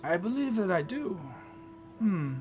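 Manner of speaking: a courteous trader checking his ledger; shopkeeper voice. Acted.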